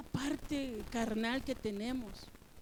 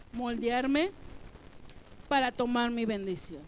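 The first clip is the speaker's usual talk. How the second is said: congregation call-out; 5 dB louder than usual. Shown as a demonstration. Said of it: "Diga conmigo".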